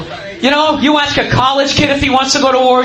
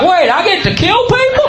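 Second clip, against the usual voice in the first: eager redneck; 5 semitones higher than usual. Acted. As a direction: sound delighted at the chance. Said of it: "They're just like".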